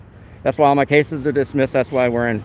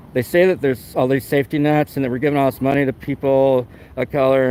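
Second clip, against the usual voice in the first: real mounting agitation, slightly raised; earnest, insistent rant; worked up; 3 semitones higher than usual. Real, not acted. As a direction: get worked up as you press the point. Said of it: "I'm getting all worked up".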